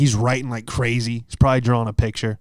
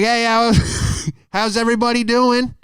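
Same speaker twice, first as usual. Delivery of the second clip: much higher, slow, hammed-up emcee voice; stand-up opener; 9 semitones higher, slower than usual. Comic performing at the judge's grave, hammy stage voice. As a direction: greet the crowd like a cheesy club comic.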